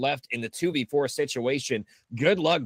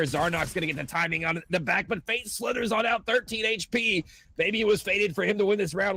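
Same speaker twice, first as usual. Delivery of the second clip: building live play-by-play call; esports caster; 4 semitones higher than usual. Acted. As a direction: call the clutch with rising tension. Live play-by-play of clutch round.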